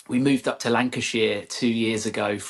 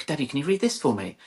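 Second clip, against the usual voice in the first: put-on child asking; 5 semitones higher than usual. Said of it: "give you something and go".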